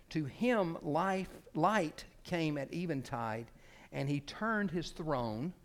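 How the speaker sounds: slow, measured oratorical reading; quotation read aloud. Acted. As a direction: draw out each phrase, pausing before the payoff.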